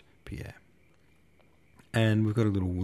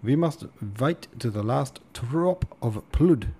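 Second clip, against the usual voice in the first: mild declaration; 4 semitones higher, 4 dB louder, slower than usual. Acted. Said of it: "giving the table a thump".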